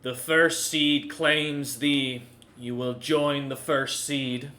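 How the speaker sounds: slow, solemn tree voice; ancient tree. Acted. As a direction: intone like an ancient seed spirit.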